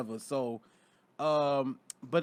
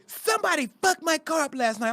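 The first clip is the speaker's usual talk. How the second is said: put-on Pittsburgh girlfriend voice; 10 semitones higher, 5 dB louder than usual. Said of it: "She said, she said".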